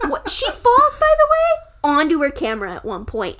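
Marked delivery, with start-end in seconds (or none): 0.1-1.7 laughing. Real, not acted. Laughing mid rant.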